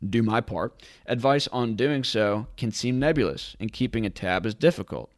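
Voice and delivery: normal talking voice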